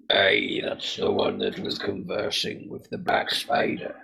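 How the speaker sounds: a wary stranger interrogating; gruff NPC voice. Acted. GM voices NPC questioning party.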